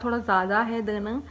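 lip pulled aside by finger; speaking while showing teeth; finger in mouth corner. Real, not acted. Seen 1: finger at lip corner on teeth, pulling lip; briefly lowered at 0.4, 2.0.

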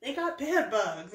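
slow southern drawl; southern accent. Retold or imitated. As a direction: imitate a southern neighbor, drawn out. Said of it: "That's my southern accent".

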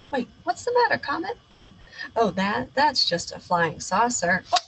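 bold captain narrating his mission; heroic space captain. Acted. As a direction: play the brave space hero. Child hero voices adventure.

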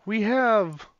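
hushed wildlife narrator turning excited; nature documentary. Pretend. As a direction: narrate the beans like a nature film.

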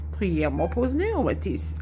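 careful repeat of "Priemno poznayomitis"; repeating the phrase. Shown as a demonstration. Vlogger repeats the phrase for viewers, careful. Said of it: "Something like that".

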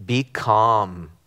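low, measured motherly admonition; mother urging calm. Retold or imitated. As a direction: gently imitate mom settling you down. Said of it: "she would always say".

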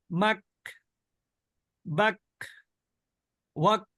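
মাক বাক ওয়াক ending with a kh-like puff; breath released. Shown as a demonstration. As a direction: push breath out after the final ক. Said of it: "ক্ষয়ের মতো বাতাস বের হয়ে যাবে".

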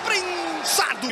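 grito de lance. Real, not acted. Replay do mesmo lance.

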